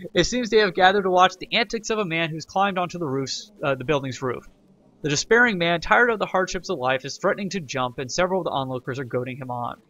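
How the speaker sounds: narrating the event text aloud; game event narration; reading game text. Acted. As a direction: read it like a storybook.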